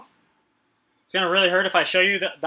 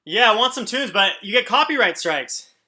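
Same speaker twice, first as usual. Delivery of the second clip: excited; 4 semitones higher, 3 dB louder than usual. Real, not acted. Wanting music, complaining loudly.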